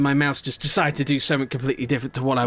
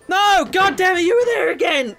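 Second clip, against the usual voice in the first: high, loud cursing yell, real rage; furious shout; 5 dB louder than usual. Real, not acted. Player falls back again and yells at the game, furious shout. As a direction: howl it at the game.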